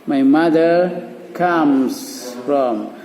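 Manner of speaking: very slow sentence starter; slow model sentence. Shown as a demonstration. Teacher prompting pupils about mothers very slowly. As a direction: drag each word for the pupils. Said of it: "Mother, ayo mother".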